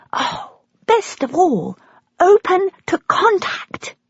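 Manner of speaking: crying, high and slow; tears breaking through with joy; choked up. A narrator's reading. Daughter learns her birth mother wants contact, crying.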